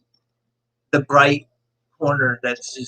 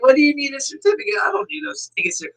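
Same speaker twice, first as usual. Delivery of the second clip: put-on bratty kid scoff; 11 semitones higher, faster than usual. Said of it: "I'm like".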